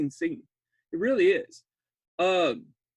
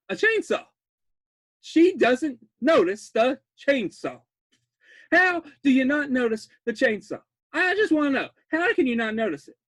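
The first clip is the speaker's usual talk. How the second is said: incredulous; 5 semitones higher, 4 dB louder than usual. Real, not acted. Incredulous at victim not noticing.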